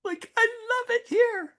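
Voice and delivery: wife torn about selling, in a high imitating voice; tearful wife. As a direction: squeak it out like a wife who can't bear to leave her home. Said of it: "and she's like".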